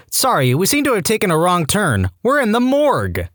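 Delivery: alarmed shout. A narrator's reading. Young patient to the hospital porter pushing the bed, shouted. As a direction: call out in rising alarm. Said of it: "and shouted".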